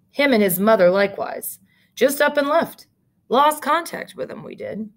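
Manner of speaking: put-on the clerk spills old gossip. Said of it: "the clerk muttered".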